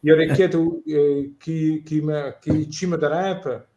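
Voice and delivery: a lightly voiced Bari dialect, said in a natural way; Barese dialect. Shown as a demonstration. Asked to say something in Barese, he answers in a relaxed Bari dialect. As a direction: speaks a few lines of Barese, warmly. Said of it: "in dialect of Bari".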